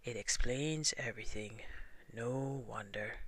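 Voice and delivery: gloomy. Acted. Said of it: "said Eeyore gloomily".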